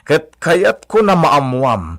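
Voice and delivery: slow loud warning; threatening. Acted. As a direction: spell it out slowly as a threat.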